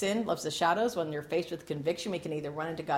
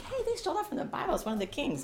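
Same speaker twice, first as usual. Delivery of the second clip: much higher, fast excited cry; excited outburst; 9 semitones higher, 3 dB quieter, faster than usual. Retold or imitated. Pastor in the theater recognizing the Bible king, excited. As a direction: blurt it out like a kid spotting something. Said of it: "I'm wa-, like".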